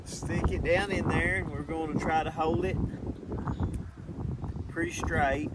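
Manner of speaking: talking around a marker held in the mouth. Real, not acted. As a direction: speak with a marker between your teeth. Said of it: "I can't talk to you guys if I have a marker in my mouth".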